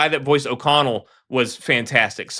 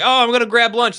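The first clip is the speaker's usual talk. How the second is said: mock bored actor; 9 semitones higher, 3 dB louder than usual. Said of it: "And he's like".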